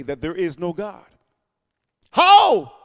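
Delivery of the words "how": sharp, much higher and louder 'How?'; exasperated cry. Real, not acted. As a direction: fling the question out at the crowd.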